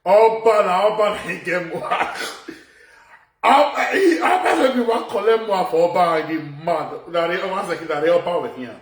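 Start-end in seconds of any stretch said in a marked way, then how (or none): 0.1-6.2 laughing mock quote. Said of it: "he said".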